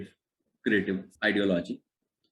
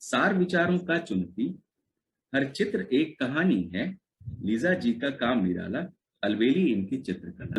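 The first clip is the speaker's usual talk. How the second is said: poem recital; much faster than usual. Acted. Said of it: "I had written this poetry".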